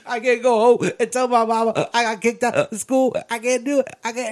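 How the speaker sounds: hammed-up whiny fake sob; badly faked cry. Student fake-crying to the principal, hammed-up. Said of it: "really horrible fake cry".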